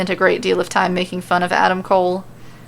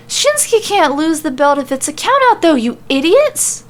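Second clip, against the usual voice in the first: gloating laugh; 8 semitones higher, 4 dB louder than usual. Acted. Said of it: "Sammy suddenly starts laughing".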